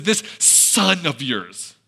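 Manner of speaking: slow, disdainful this son of yours; disgusted. Retold or imitated. Older brother to his father, slow and disgusted. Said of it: "an air of disgust".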